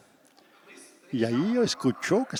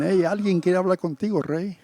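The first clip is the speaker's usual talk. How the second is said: louder call to the king; 3 semitones higher, 5 dB louder than usual. Retold or imitated. Servant calling the king about a visitor, louder. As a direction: announce the visitor across the tent.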